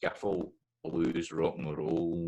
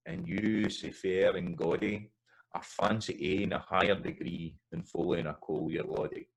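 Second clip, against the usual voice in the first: Scots ballad reading. Shown as a demonstration. Teacher recites the ballad in his own Scots, rhythmic folk recital. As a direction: recite the whole ballad in broad Scots with its lilt. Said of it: "this is how, how I sing this".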